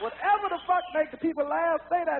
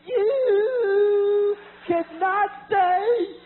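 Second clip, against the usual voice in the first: angry Bill; 4 semitones higher, much slower than usual. Retold or imitated. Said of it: "that's when Bill got pissed".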